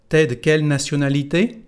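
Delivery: "T'es de" said as one, smooth; native contraction. Shown as a demonstration. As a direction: repeat "T'es de quelle nationalité?" fluently. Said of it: "Puede repetir, por favor?".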